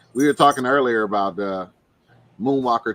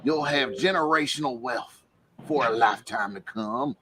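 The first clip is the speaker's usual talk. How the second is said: Wanna Be Whale. Retold or imitated. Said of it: "that was one of his quotes".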